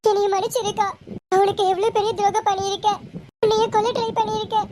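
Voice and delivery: a mild, understated tearful apology to her sister; tearful pleading. Acted. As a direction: beg forgiveness with a touch of tears. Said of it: "அழுகாதடி". (அக்காவிடம் மன்னிப்பு கேட்கும் லேசான அழுகுரல்)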